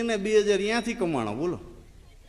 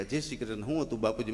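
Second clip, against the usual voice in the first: hushed condolence; 7 semitones lower, 9 dB quieter, faster than usual. Retold or imitated.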